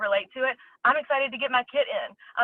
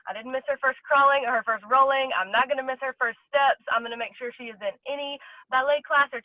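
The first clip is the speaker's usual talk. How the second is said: passionate, rushing faster as the promises pile up; a mother fired up about never missing her daughter's moments, speaking excitedly. Real, not acted. Building real excitement, words tumbling out quicker. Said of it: "Sorry, I got all fired up and excited".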